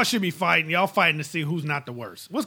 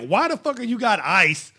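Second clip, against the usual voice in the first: baffled outburst; 5 semitones higher than usual. Retold or imitated.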